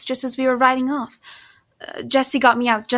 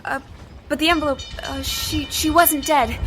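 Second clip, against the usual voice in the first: pitched up, stumbling and panicky; frightened stammer; 4 semitones higher than usual. Acted. Cornered woman stammering excuses to Jesse, frightened and higher. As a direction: babble the excuse, tripping over every word.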